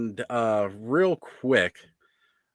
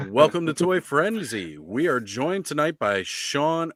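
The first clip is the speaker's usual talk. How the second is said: announcer voice; 4 semitones higher than usual. Acted. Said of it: "announcer voice".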